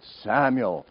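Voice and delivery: acted call, projected. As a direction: summon the sleeper by name. Voice calls the third time.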